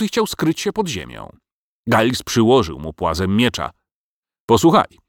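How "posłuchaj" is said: a louder, higher stern warning; stern command. A narrator's reading. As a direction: bark it at the dragon. Giles threatens the dragon. (groźny, głośny rozkaz)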